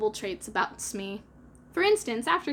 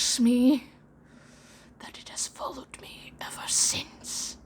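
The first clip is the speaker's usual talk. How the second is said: lowered voice; 4 dB louder, slower than usual. Acted. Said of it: "He lowered his voice".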